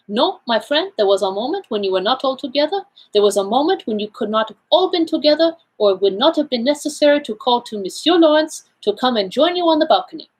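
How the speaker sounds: Poirot, self-assured. Acted. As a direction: play the Belgian detective laying out his findings. Figure of Poirot in read story.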